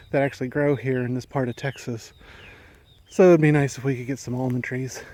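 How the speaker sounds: winded from mowing; out of breath. Real, not acted. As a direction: talk a little out of breath. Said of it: "sorry if I'm a little out of breath".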